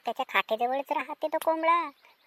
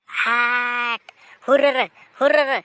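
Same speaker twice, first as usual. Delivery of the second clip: loud drawn shoo; shooing call; 6 dB louder, slower than usual. Acted. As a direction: chase the animal off with a shout. Shooing away the cat.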